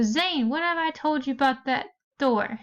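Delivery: a touch of an exasperated mom yelling; mock yell. Shown as a demonstration. Teacher reading the revised line with a mildly yelled mom. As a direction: call it out like a fed-up mom. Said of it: "his mom yelled from her study".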